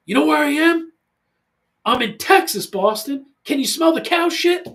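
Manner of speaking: loud, high mock yell at son; playful shout into the phone to son. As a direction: yell it down the line, half joking. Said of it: "kinda yell at him".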